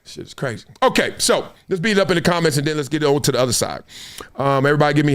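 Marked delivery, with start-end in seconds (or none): 0.0-0.7 1 mock choked. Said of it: "I was like".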